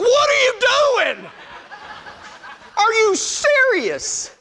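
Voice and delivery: high-pitched exclamation of disbelief; hammed-up alarm at your own stupidity; mock panicked self-scolding. Man to himself after hanging up, mock panicked.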